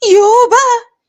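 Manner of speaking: loud, high-pitched whine of annoyance; exasperated outburst. Acted. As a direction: burst out, fed up with the nagging. ابنة ضاق صدرها من اللوم. (بزهق ونرفزة)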